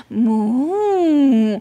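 put-on soft playful moo for the baby; mock cow moo. Shown as a demonstration. Mother moos to baby during cow pose, playful. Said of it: "Maybe make some sound".

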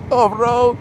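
dicho alto, en plena risa; reírse de sí mismo; riendo. Real, not acted. (riéndose, con burla)

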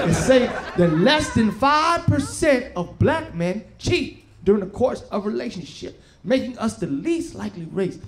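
measured, mock-solemn announcement; mock survey reading. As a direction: read it out like official findings, holding back the punchline.

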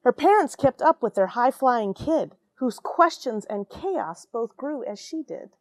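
lively rhyming picture-book read; storybook narration with a sing-song lilt; reading to children. A narrator's reading. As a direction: read it aloud to a class of kids, bouncing the rhyme. Reads picture book aloud.

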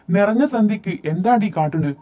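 elder bursting in to scold; angry scolding. A narrator's reading. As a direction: demand an explanation from a misbehaving girl. Aunt runs in, scolding the girls.

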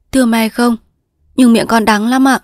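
respectful daughter, pitched a little high; lightly voiced daughter. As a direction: speak as an earnest daughter to her mother.

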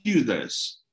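high, insistent, incredulous questioning; acted outrage, pitched high; indignant wife. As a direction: imitate a wife flatly refusing to believe him. Wife's outraged reaction, retold.

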